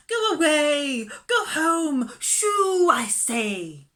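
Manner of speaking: loud, high angry shout; angry shooing. Acted. Miss Lark angrily shooing the mongrel away, shouting. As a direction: drive the dog off in a fury. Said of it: "waving her arms angrily".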